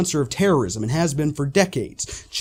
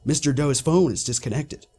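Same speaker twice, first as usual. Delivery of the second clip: lightly put-on Russian accent, curt operator; a hint of a Russian phone operator brushing you off; mock Russian accent, cold and dismissive; thick Russian accent. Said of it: "they say in a thick Russian accent".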